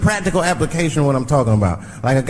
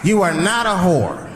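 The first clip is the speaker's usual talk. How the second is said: exasperated; 7 semitones higher, slower than usual. Retold or imitated. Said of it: "It's like".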